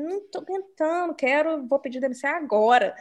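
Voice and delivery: venting quote. Retold or imitated. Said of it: "falar assim".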